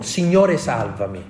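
loud desperate plea; cry for help. Retold or imitated. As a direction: cry out to be saved from the waves. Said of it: "gridò".

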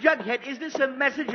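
high, loud outburst to stop it; exasperated shout. Acted. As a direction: bellow that's enough. Father explodes at relay.

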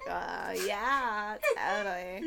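bored creaky "Uh, yeah, totally"; vocal fry. Shown as a demonstration. Showing the fry buzz at the back of the voice, creaky and bored. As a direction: let a little grudge buzz in the throat. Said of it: "a little grudge in the back of your voice".

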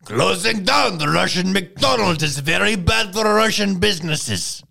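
loud, high, slow hammed-up Russian accent; mock Russian accent. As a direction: proclaim it with a thick fake Russian accent. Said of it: "say it in a Russian accent".

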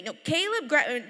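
a mother at the end of her patience; sharp mom order. Retold or imitated. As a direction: cut the child off, done arguing. Mother cutting child off.

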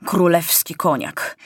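slow, relishing soldiers' approval; drawn-out mild delight at a treat; savouring praise. A narrator's reading. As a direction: linger over each word with appreciative mmms.

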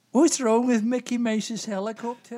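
unconvincing put-on Scottish accent. Simon retrying his joke for Doris, bad Scottish accent. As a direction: have another go at bad Scottish. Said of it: "in a Scottish accent".

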